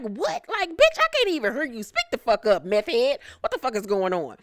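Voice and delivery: imitating aggravation, high at first then settling; mock irritation. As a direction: act fed up, starting high. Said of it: "just disgusted and just irritated and aggravated".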